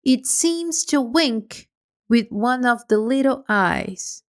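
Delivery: ordinary delivery, nothing marked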